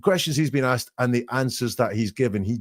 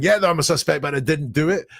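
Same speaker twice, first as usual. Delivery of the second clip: mock anger; 5 semitones higher than usual. Imagined suspect protesting innocence, mildly angry. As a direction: protest innocence with some heat. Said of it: "there's no anger".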